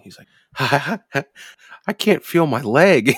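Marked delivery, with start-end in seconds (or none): 1.9-3.2 high, loud, slow giggly wail; drawn-out, high-pitched stoner whine with giggles; giggly stoned friend. Retold or imitated. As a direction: imitate a stoned friend cracking up. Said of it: "Magoo starts getting this giggle going".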